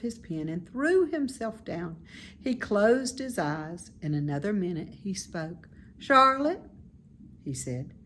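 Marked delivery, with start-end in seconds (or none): 6.0-6.6 higher, eager little pig voice; bright childlike pig, fond of the barn; high, eager young pig; young pig Wilbur. Acted. Wilbur calling softly.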